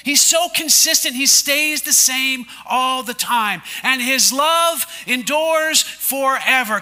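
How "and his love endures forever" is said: slow declaration. Shown as a demonstration. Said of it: "Can you say that with me?".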